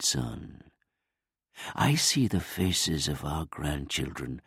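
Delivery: lightly voiced grieving old man; father comforting his grieving son, lightly aged.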